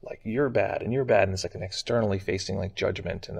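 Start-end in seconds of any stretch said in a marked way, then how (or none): 0.2-0.8 arrogant judgment. Retold or imitated. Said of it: "arrogance that's like". 0.8-1.2 harsher, louder scolding "you're bad"; louder arrogant judgment. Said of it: "arrogance that's like".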